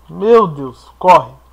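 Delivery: loud panicked call to run; being chased. Real, not acted. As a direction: yell run while fleeing. Fleeing a monster in game.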